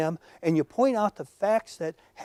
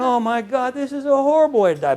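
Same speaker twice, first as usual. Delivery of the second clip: higher, louder horrified cry; panicked little bird; 7 semitones higher, 7 dB louder than usual. Acted. Speaker voices the bird buried in manure, in a horrified cry. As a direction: squawk out the bird's horror, mock-dramatic. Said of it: "And he's going".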